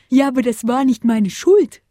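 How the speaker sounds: a protesting cry; called out. A narrator's reading. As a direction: call out defending himself. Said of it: "rief Paule".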